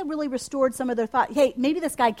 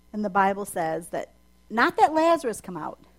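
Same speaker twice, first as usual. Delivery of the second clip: ordinary talk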